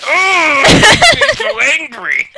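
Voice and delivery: high, slow, hammed-up fury; mock angry. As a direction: play at being furious.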